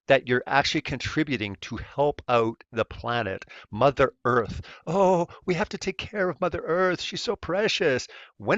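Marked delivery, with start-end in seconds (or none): 4.8-8.1 high, hammed-up gushing; mock gushing believer. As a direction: parody a sappy tree-hugger. Mocking Mother Earth believers.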